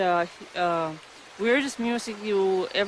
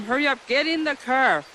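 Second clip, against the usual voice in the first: mildly raised, urgent retelling of a call; retold holler; 4 semitones higher than usual. Mother telling her girls to hurry into the car, mildly hollered. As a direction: lightly imitate hollering to hurry. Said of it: "I hollered at the girls to hurry up".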